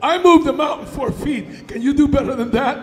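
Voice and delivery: smug, boastful giant; full of himself. Acted. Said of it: "oh, full of himself".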